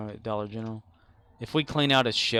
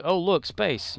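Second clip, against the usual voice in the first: higher mock discovery; mock delighted surprise; 7 semitones higher, 3 dB louder, slower than usual. Coworker spotting a cleared shelf, mock delighted. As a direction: play the coworker's silly delight. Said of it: "someone's like".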